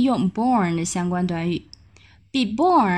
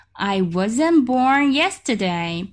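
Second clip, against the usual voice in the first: very slow, breathy model sentence; slow whispered model; slower than usual. Shown as a demonstration. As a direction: whisper it slowly for learners. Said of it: "slow whispered model".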